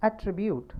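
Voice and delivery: "attribute" as at-TRI-bute, falling at the end; careful verb form of "attribute", middle syllable prominent; stress on second syllable. Shown as a demonstration. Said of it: "Now it's become".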